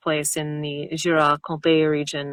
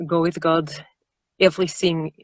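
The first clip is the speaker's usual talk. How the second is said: tentative Russian accent. Shown as a demonstration. Narrator attempting on request, shaky-footed Russian accent. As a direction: try out a Russian accent, drifting French. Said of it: "can you just do a Russian accent".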